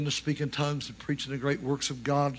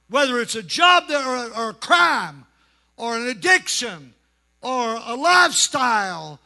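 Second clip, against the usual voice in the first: raised pulpit voice with long stressed words; full-voiced preaching; 8 semitones higher, 5 dB louder than usual. Real, not acted. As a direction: press each phrase on the congregation. Preaching to the congregation.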